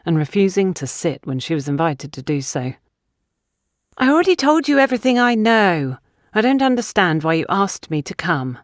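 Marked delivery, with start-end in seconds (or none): 4.0-8.6 put-on sharp, accusing, defensive young woman; accusatory. Young woman accusing Gabrielle of wasting her time, accusatory. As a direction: throw the accusation at Gabrielle, high on the first line. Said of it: "in an accusatory manner".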